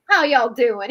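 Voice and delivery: hammed-up Southern howdy; Southern accent. Thoth coming back to Earth, greeting folks in a Southern accent. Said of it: "I could imagine him with the Southern accent".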